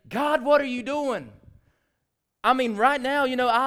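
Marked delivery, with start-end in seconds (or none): 0.1-1.3 louder, slow cry of protest; exasperated cry to God. Retold or imitated. Preacher imagining his protest to God, loud and slow. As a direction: throw the question up at God. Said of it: "I would be the first to say".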